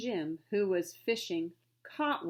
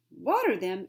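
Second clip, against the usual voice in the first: louder, incredulous exclaim; 7 dB louder than usual. Acted. Frenchman incredulous at the butler's advice, louder exclaim. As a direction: repeat it in disbelief. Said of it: "exclaimed the Frenchman".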